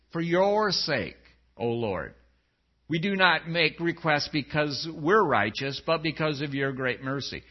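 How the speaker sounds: unhurried, reverent phrasing; humble petition. Acted. Rereads Daniel's short phrases.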